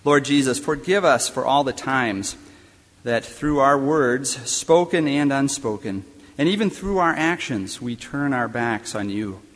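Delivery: closing prayer. Acted. Chaplain praying aloud over the students, earnest and fervent. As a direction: pray it aloud, fervent at the start and settling by the amen.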